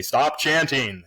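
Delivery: drawn-out, lightly acted classroom call; mock teacher's reprimand. Shown as a demonstration. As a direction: stretch it out like telling off noisy kids. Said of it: "turn around and say".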